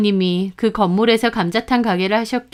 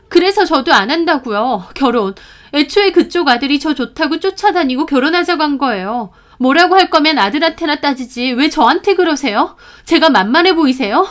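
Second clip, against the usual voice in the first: raised, indignant retort, not full shouting; angry yell; 5 semitones higher, 4 dB louder than usual. Acted. Narrator rejecting the boyfriend's mother, mild angry yell. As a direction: snap back in anger. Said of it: "저도 화가 나서 소리 질렀습니다".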